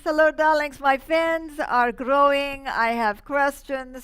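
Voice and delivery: grand, slow diva greeting; campy drag queen. Acted. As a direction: sweep in like a theatrical diva. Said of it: "here she is, Madame Mazurka".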